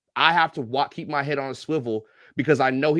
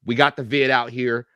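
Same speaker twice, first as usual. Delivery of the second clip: mock dismissive official; 6 dB louder than usual. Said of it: "they was like".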